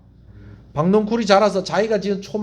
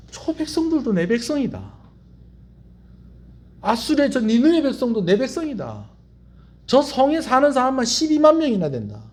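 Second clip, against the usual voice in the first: higher, sustained voice of God; God declaring; 5 semitones higher than usual. Acted. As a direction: declare it as God claiming his people. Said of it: "하나님께서 뭐라고 얘기하시느냐". (하나님이 선포하듯 높고 길게)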